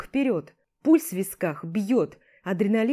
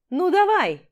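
loud, higher jeering dare; taunting shout; 10 semitones higher, 7 dB louder than usual. Acted. Rival goads him into a fight, jeering shout. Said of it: "подначивает он меня, брызжа слюной".

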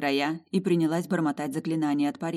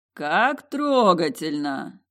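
booming mocking voice; 5 dB louder, much slower than usual. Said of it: "раздалось вдруг гулкое".

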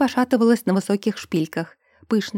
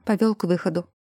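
ordinary delivery, nothing marked

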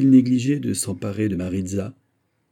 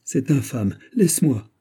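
moaning plea; 4 semitones higher, 3 dB louder than usual. Acted. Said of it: "gémit Maritza".

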